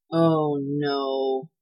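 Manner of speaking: low, dismayed groan. A narrator's reading. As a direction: groan it out as realization sinks in. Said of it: "then he groaned".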